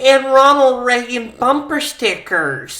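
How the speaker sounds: high, hammed-up wife voice; disbelieving wife. Wife listing Herbie's hobbies in his defense, hammed-up disbelief. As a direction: protest on his behalf in mock disbelief.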